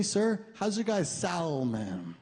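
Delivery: salmon with the L sounded, slowly; a lightly voiced date saying salmon with the L. The date asks the waiter, sounding the L. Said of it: "She's like".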